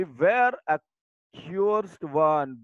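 mock angry shout at the daughter; mother shouting. Mother scolds her daughter for the muddy dress, loud mock shout. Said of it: "आता तिची आई ओरडली".

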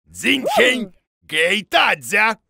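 sing-song gibberish posing as Chinese; mock Chinese. Boda showing off fake Chinese to the Morfiks, mock accent. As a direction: fake Chinese syllables, wild pitch leaps. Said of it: "Ты говоришь по-китайски?".

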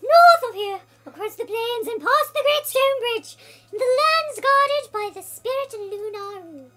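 high, loud, slow spirit oracle; booming spirit voice. Acted. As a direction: proclaim it like an ancient spirit. Reading an oracle's spirit lines.

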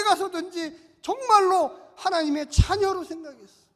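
loud, slow pulpit declaration; rousing sermon cry. Acted. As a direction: lift the hall with the promise. Preaching at full force. (우렁찬 설교 외침)

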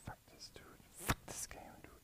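silent rage. Real, not acted. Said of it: "the most silent aggression".

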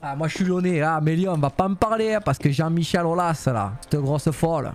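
a light mock Marseille accent, bar regular ranting. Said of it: "ça parle comme ça". (léger accent marseillais de comptoir, ton moqueur)

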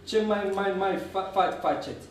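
lightly voiced stammer, repeated first syllables; stuttering Dudu. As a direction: stumble over the starts of words. (bâlbâială ușoară a lui Dudu)

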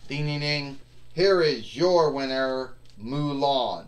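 loud, proud winner call; ring announcer. Pretend.

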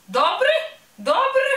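a starling mocking the polite bear, high and loud; mocking starling call. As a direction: parrot the greeting back like a cheeky bird. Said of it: "zawołał szpak".

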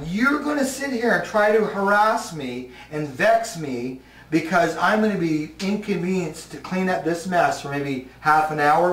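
cocky taunt. Retold or imitated. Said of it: "So I thought".

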